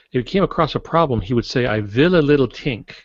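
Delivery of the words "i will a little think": put-on light German accent, Einstein quote. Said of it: "There's that heavy German accent".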